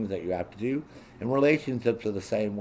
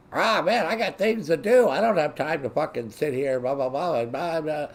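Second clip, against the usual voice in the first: high-pitched mock protest, tailing off; upset complaint; 6 semitones higher than usual. Friend upset at being questioned about vanishing all day, mock upset. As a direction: imitate someone griping in a higher voice. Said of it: "they get all upset with you".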